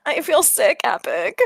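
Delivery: put-on sick kid's mild whine; whining. Sick child appealing to Epic, whining. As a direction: whine it, pitch lifting then dropping on the name. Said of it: "he's sort of, like, whining".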